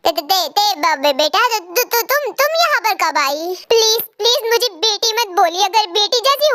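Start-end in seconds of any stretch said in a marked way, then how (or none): 0.1-3.4 scared, broken stammer; frightened stammer. Acted. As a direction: caught out, stammering. Caught father stammers in fear.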